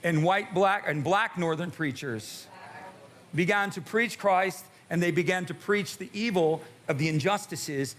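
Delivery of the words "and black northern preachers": call-and-response line. Shown as a demonstration. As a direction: lead them in black northern preachers. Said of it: "everybody say it with me".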